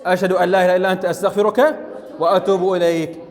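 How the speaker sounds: measured, formal prayer recitation; teacher reciting a second supplication for the students. Shown as a demonstration. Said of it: "نقول".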